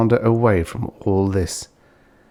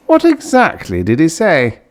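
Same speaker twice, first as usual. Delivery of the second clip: eager question; 9 semitones higher, 6 dB louder than usual. Acted. Uncle eager for the news.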